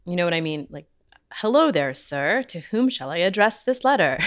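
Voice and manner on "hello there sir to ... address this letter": lightly mock-formal, stiff recital; a touch of hammed-up stiffness; stilted third grade play. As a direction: read it like a kid in a school play. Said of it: "sound like a third grade play".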